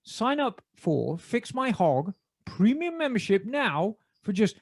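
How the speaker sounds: measured BBC announcer reading an ad. Acted. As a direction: deliver the sponsor read in your best BBC British. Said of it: "in my best B B C voice".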